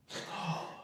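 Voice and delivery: gasp. Real, not acted. Sound without words.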